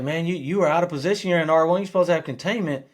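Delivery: the coach pointing out the player's mistake in the hallway; coach correcting. Retold or imitated. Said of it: "he's like".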